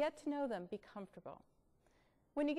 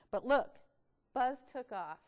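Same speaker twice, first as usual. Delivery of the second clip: usual speaking voice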